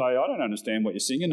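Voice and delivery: a light, quick take on a puzzled mum; hint of a bemused mother, briskly; imitating Mum. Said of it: "Mum would say".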